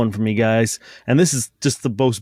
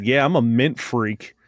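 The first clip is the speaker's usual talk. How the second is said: deadpan; slower than usual. Retold or imitated. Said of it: "looked at her straight in the eyes".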